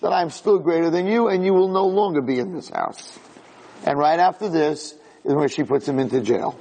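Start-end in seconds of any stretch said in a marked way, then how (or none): 0.0-3.2 God's rebuke. Retold or imitated. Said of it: "Hashem said".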